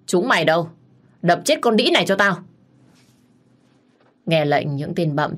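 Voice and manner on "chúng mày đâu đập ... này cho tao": louder, higher command to attack; shouted order. Acted. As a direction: yell the order to her men. Wife orders her thugs.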